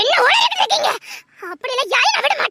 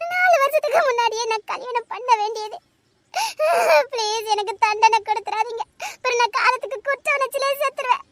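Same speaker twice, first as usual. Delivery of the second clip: quieter, tearful begging; soft crying; 3 dB quieter than usual. Acted. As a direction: sob out the plea for mercy. Guilt-stricken woman crying softly. (மெல்லிய அழுகையுடன் கெஞ்சல்)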